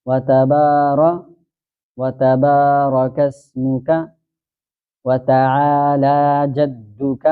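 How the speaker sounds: drawn-out, chanted recitation of the prayer; slow prayer recitation. Shown as a demonstration. Teacher reciting the opening prayer slowly for students.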